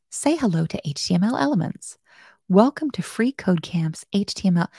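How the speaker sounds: lightly voiced cheerful robot; happy robot voice. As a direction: announce it like a friendly machine. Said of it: "in a happy robot voice".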